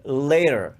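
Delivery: "later" with a drawn-out throaty L; low dark L. Shown as a demonstration. Teacher giving an English example, dark L in "later". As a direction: start "later" slowly on an L from the throat. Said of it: "often comes from much lower".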